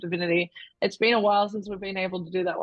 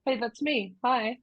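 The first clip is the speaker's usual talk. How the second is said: genie impression; 4 semitones higher, slower than usual. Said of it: "that was my genie impression".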